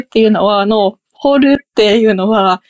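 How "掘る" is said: 掘る held high on both morae; high-high accent. Shown as a demonstration. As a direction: say 掘る high-high, no drop. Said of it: "高い高いなんですよね、".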